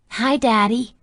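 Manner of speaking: put-on high, bright child voice; a small girl shyly greeting her dad; little girl voice.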